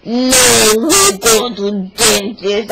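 loud, put-on voice of a big dad; lightly voiced heavy-set authority; big deep voice. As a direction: imitate dad's booming refusal. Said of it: "he says in big, deep voice".

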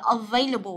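"available" with stressed VAY second syllable; correct pronunciation. Shown as a demonstration. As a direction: say "available" as uh-VAY-luh-bul. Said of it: "từ này các bạn rất hay đọc sai". (đọc "available" đúng, âm giữa là "vây")

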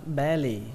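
"belly" stressed on BE, falling on -lly; first-syllable stress. Shown as a demonstration. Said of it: "trọng âm của nó rơi vào âm đầu tiên". (đọc "belly" nhấn âm đầu "be")

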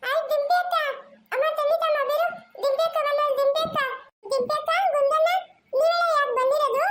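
put-on a little kid excitedly calling names; child's voice.

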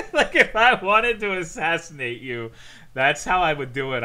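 high, loud, laughing through the words. Real, not acted. Streamer jokes about toad assassination plan, laughing. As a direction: talk through a real laugh.

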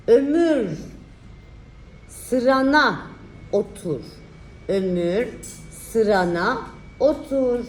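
slow, drawn-out dictation; dictating. Shown as a demonstration. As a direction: spell out the sentence slowly. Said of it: "dikte çalışması".

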